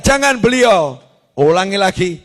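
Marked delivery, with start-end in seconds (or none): 0.0-1.0 crowd shouting. Retold or imitated. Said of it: "Satu kapal juga teriak".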